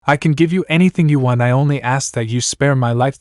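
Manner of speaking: a mildly panicked plea, pitch climbing; fearful pleading. Acted. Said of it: "the dwarf shouted with fear".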